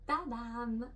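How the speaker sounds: bright little ta-da; playful reveal. Real, not acted. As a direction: present it like a magic trick. Revealing birthday gift.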